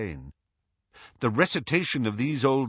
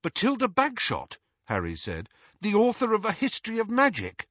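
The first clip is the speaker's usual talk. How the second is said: put-on questioning boy; 12 semitones higher, faster than usual. A narrator's reading. Narrator voices young Harry.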